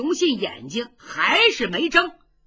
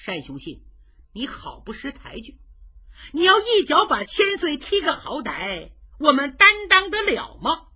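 angry; 4 semitones higher, 7 dB louder than usual. Acted. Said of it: "徐茂公可生气了".

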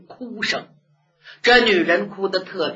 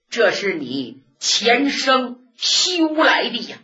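put-on old nun blessing; 3 semitones higher than usual. Old nun moved to tears, blessing the couple, voice rising at the end.

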